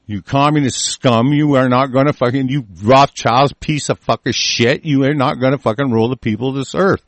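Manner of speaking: heated, insulting rant; angry defiance. Real, not acted. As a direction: lay into them with defiant anger. Insults and defies imagined rulers.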